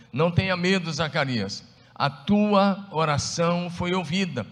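loud, high, fervent proclaiming; preached loud. Shown as a demonstration. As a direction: proclaim the angel's words with force. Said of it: "same verse preached loud".

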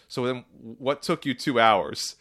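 slowed-down, mildly exasperated question; retold irritation, drawing it out; annoyed. Customer confronting the dealership guy about the wait, mildly annoyed. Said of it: "annoyed in, in my, in my voice".

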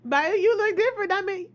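lively, lilting re-enactment of a compliment; complimentary demo. Shown as a demonstration. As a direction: say it as if meant kindly. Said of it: "That's how I say it".

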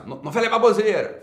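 mock outraged viewer snapping back; quoting a scoffing viewer. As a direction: toss off the viewer's dismissive jab. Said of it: "acabou de responder assim".

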